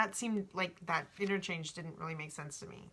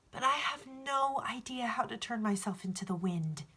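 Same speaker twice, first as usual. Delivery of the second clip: put-on young boy voice; 4 semitones higher than usual. Boy answers alchemist.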